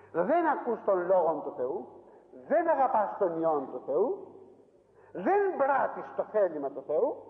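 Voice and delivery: slow, weighty charges, each line spelled out; measured, solemn preacher's rebuke. Acted. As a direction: lay each accusation down slowly.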